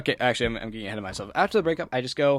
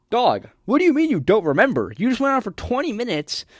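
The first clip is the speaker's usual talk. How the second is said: louder and higher, incredulous outburst; exasperated rant; 8 semitones higher, 7 dB louder than usual. Real, not acted. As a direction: vent at her in disbelief, much louder.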